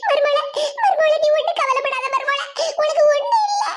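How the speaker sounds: high, acted weepy comforting; tearful reassurance. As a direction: comfort her while wailing. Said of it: "நீங்க அழுதுகிட்டு இருக்கிய".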